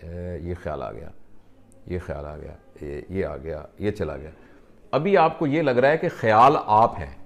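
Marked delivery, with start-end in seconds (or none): 0.1-4.3 softer and lower, calmly noting each thought as it passes; quietly label thoughts coming and going. Shown as a demonstration. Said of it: "اپنے خیالات کو بھی دیکھتے رہیں ایسے". (خیالات کو دیکھتے ہوئے دھیمی، پرسکون آواز)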